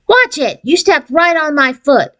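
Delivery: high, squeaky little-sister complaint; squeaky complaining. A narrator's reading. Little sister complaining in a high squeaky voice after being stepped on. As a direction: squeak it out, whiny. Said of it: "a squeaky voice complained".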